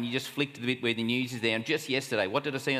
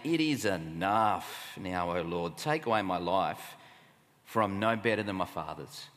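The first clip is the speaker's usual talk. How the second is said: frustrated despair; 4 semitones lower than usual. Acted. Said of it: "Can you hear the frustration?".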